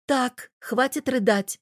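slow, firm motherly command; stern but kind mother; firm order. A narrator's reading. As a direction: snap her out of crying. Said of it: "велела Ждана".

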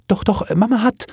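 put-on high, flustered young girl; hasty interjection. A narrator's reading. Daughter interrupting father's intimate question, hasty and flustered. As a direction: jump in high to cut him off. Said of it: "fuhr das Mädchen schnell dazwischen".

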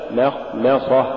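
مخمصة with light, thin M sounds; correct recitation. Shown as a demonstration. Tajweed teacher giving the form to say, correct recitation. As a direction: keep both Ms of مخمصة light. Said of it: "الصواب".

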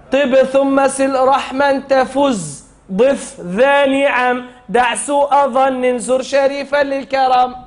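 slow chant, each word laid out; deliberate recital for children to copy; slow verse recitation. Shown as a demonstration. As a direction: model the line slowly for the class. Teacher recites verse slowly.

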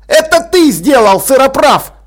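loud, high angry shout; yelled accusation. A narrator's reading. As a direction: yell the accusation at your roommate. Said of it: "заорал он".

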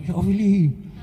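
imitating loyal old friends after a gig; lightly voiced regular fans. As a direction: lightly mimic friends saying their goodbyes. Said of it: "poi vengono ogni volta".

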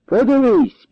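high, slow, furious taunt; furious retort. A narrator's reading. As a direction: throw it back at him in rage. Danylo hurls the hive.

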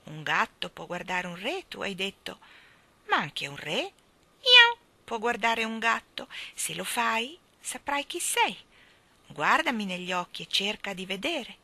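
lightly voiced cat with high meows; a cat's measured urging, punctuated by mews; talking cat. Cat urging the king to look into its eyes, talking cat.

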